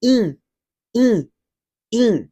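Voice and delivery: "in" with a nasal vowel, Portuguese style. Shown as a demonstration. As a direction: say "in" through the nose, Portuguese way. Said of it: "ou va pwononse kòm". (pwononse "in" ak son nen)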